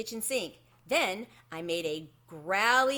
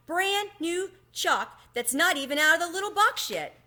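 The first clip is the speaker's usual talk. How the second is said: higher, louder, eager rush; excited gush; 9 semitones higher, 6 dB louder than usual. A narrator's reading. Girl marvels at unopened chalk, high and excited. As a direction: gush over the treasure. Delighted discovery.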